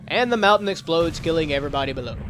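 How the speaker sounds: story narrator. Acted. Player narrating the game's cutscene, mock-dramatic storytelling. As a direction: announce a mock catastrophe.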